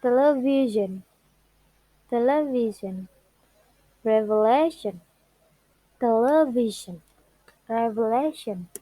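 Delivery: VI in television, LA in revelation; stress on penultimate syllable. Shown as a demonstration. Teacher giving examples of a rule, penultimate syllables stressed. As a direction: pitch peak on tele-VI-sion and reve-LA-tion. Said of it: "Stress on penultimate syllable".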